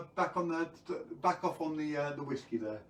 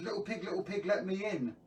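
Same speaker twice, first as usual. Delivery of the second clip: lightly voiced wolf, pitched higher; wolf calling; 4 semitones higher than usual. Wolf asking the pig to open up, lightly voiced calling. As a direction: call through the door in higher sing-song. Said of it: "and he says".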